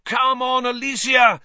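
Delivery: high, loud urging yell; cheering yell. A narrator's reading. Lee Jordan urges Alicia at the penalty, cheering yell. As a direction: cheer her on through the silence. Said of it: "yelled Lee".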